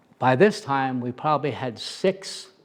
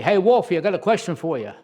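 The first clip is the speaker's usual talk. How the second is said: higher, louder call up the staircase; yelled question; 5 semitones higher, 5 dB louder, faster than usual. Retold or imitated. Inmate downstairs calling up to Wolfie, loud yell. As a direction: yell it across the tier. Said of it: "He yelled to me".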